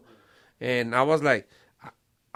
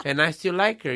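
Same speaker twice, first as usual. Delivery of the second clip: laughing; 3 semitones higher, 7 dB louder than usual. Real, not acted. Laughs while admitting it.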